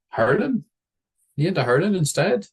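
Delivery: put-on high, eager childish questions; high chatty kid. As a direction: pipe up like a nosy seven-year-old. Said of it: "kid asking stranger".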